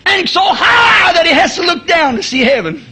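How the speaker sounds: building sermon fervor; full-force preaching. Acted. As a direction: preach it out to the congregation.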